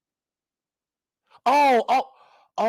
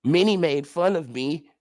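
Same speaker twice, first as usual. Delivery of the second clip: mock quote; 6 semitones lower than usual. Quoting rival mockingly again.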